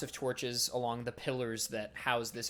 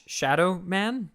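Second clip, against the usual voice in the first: slow, higher and louder startled echo; startled question; 8 semitones higher, 8 dB louder, slower than usual. Acted. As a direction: caught off guard, repeat it back slowly. Priest startled by spooky report.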